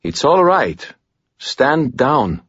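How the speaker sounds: calm him down, softly insistent; mildly reassuring, quiet command; quiet reassurance. A narrator's reading. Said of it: "quietly this time".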